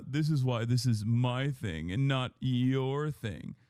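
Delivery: slow, put-on smug voice; mock smug. Streamer mocking the host's smug reply, slow and put-on. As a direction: sneer it slowly like a smug know-it-all. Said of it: "such a smug piece of shit that you went".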